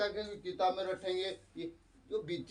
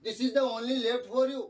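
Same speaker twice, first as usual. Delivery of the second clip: very slow, a bit higher and louder; slow English quote; 4 semitones higher, 4 dB louder, much slower than usual. Retold or imitated. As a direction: dictate it slowly to students. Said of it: "ऐसे बोल दिया".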